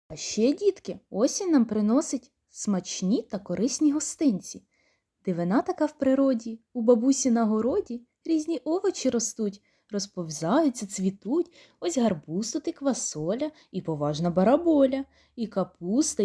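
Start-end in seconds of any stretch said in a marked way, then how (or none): 5.2-15.0 put-on bouncy rhymed reading for children; children's rhyme told cheerfully; poem recital. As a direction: read the garden verse with a playful lilt.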